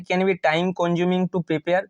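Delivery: very slow reading of the point; slow dictating voice; slow dictation. Shown as a demonstration. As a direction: dictate it word by word. Teacher dictates answer point.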